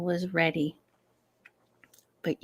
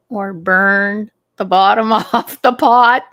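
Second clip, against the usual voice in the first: laughing while telling; 9 dB louder than usual. Real, not acted. Laughs at own mishap.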